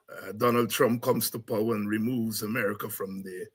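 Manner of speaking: ordinary talk, nothing marked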